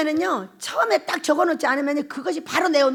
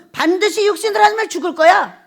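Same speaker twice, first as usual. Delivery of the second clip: quoting Romans; 3 semitones higher, 4 dB louder than usual. Retold or imitated. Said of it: "이렇게 말하는 거예요".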